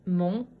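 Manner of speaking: "Montagne" in three short, separate pieces; syllable by syllable. Shown as a demonstration. Teacher counting syllables for pupils, "Montagne" broken into three. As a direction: say "Montagne" as mon, pause, ta, pause, gne. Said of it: "Trois syllabes".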